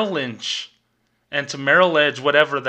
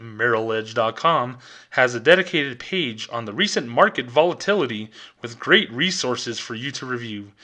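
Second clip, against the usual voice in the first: official bank voice. Retold or imitated. Teller mocking the bank's answer, lightly polished corporate read. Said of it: "Official Bank of America voice".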